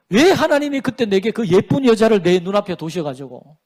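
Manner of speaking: opening sigh, then acted complaint; mock self-justifying grumble; imitated excuse-maker. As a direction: complain as if it were all someone else's fault. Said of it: "그렇게 합니다".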